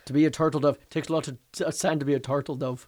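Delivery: lightly put-on Irish accent; mild Irish accent attempt; Irish accent, understated. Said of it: "endorse that accent".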